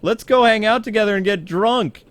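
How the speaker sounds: high-pitched, put-on party enthusiasm; mock eager. Bruce answering his friend Harvey, mock eager. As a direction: play an overeager drinking buddy. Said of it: "And he's like".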